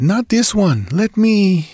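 scream. Acted. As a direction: scream to stop the snake. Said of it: "she screamed".

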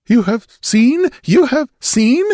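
loud, high, horrified question; cracking high-pitched fear. A narrator's reading. Stranger shaking like a leaf, voice cracking high in horror. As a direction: let it climb toward breaking in terror. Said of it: "His voice cracked on the high-pitched note".

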